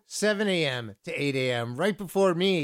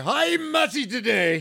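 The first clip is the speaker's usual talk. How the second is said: high, slow, drawn-out sing-song hello; mock greeting; 8 semitones higher, 8 dB louder, slower than usual. DJ hamming up a hello to the next host, high and drawn out. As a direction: stretch it out like a cheesy announcer.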